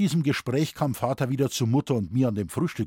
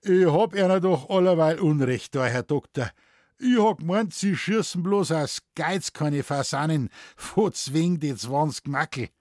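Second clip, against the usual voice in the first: Moosbichler; 4 semitones higher, 4 dB louder than usual. Acted. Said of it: "sagte Moosbichler".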